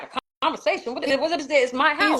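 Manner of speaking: high, incredulous outrage at the officer; rising pitch, disbelieving anger; retold outrage. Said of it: "I'm getting pissed off".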